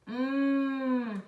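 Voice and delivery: "Hum" as a long "mmm"; isolated M sound. Shown as a demonstration. Teacher showing the M sound, a held "mmm". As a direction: hum with lips closed, no vowel. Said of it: "de hum".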